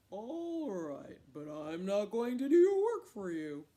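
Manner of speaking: loud, firm big-cat voice; grudging leopard. Acted. Leopard agreeing to partner with Cat, loud and grudging. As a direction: agree with a loud, weighty warning. Leopard answers Cat's request.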